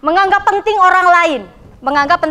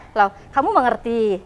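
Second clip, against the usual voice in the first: lower, gentler sincere check; sincere asking; 5 semitones lower, 4 dB quieter than usual. Shown as a demonstration. Teacher showing students how sincerity sounds, sincere asking. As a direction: ask softly, truly caring whether they follow. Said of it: "Kelihatan tulusnya".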